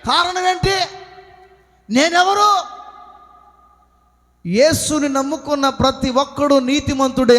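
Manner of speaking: emphatic, projected sermon delivery; full-force preaching. Real, not acted. Preacher telling believers who is righteous, full-force preaching. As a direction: drive it home to the congregation.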